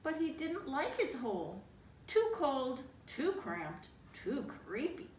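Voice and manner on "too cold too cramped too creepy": squeaky mouse. Acted. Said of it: "squeaked Mortimer".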